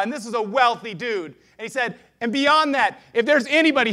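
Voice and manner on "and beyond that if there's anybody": high, loud public announcement; shouting to the crowd. Acted. Zacchaeus addressing everyone he may have cheated, shouting out. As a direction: call out over a crowd. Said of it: "he's shouting to the crowd".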